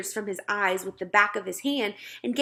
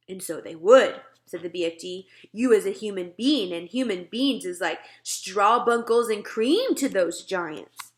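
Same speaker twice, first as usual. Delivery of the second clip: a hint of a big giant, louder; gentle giant grumbling, a touch louder; lightly voiced BFG; 4 dB louder than usual. Giant teasing nosy Sophie, lightly voiced grumble. BFG's voice in story.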